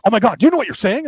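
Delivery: mild mock horror; mock shock. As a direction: imitate someone taken aback, rushed. Retold shocked reaction.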